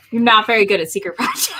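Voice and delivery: teasing through a laugh; laughing while teasing. Real, not acted. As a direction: laugh the words out at him.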